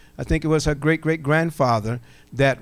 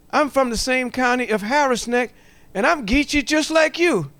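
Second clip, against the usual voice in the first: excited; 8 semitones higher than usual. Retold or imitated. Nervous excited telling Thomas.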